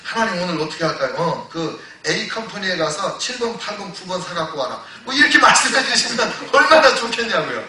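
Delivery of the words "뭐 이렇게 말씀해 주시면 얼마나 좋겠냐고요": laughing. Real, not acted. Preacher laughing at wishful idea.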